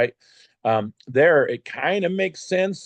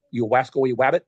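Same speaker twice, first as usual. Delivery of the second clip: Elmer Fudd; faster than usual. Pretend. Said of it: "Maybe Elmer Fudd".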